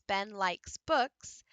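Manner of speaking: "Ben likes books" spaced out slowly, one word at a time. Shown as a demonstration. Teacher modeling a sentence for students, slow and spaced. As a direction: tap out each word slowly. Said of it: "So if you say a sentence".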